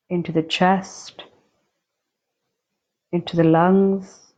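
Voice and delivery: unhurried meditation guide with long silent pauses; guided meditation. Acted. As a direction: guide them calmly, leaving long spaces between phrases. Guides the breath through body.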